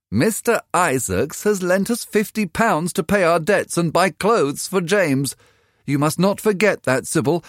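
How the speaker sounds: the poor mother pleading sense with her daughter; weary mother. A narrator's reading. Mother urging daughter to remember their debts, worried.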